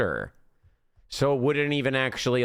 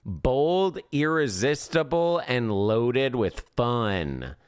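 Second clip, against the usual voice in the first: ad read. Acted. Reading the dating ad aloud.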